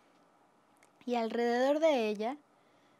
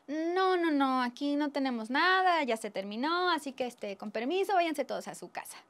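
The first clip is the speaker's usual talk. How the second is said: sly refusal; 5 semitones higher, 4 dB louder than usual. Acted. Rich diners sending the poor away, slyly dismissive. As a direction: act a crafty, dismissive excuse. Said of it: "muy astutos, dijeron".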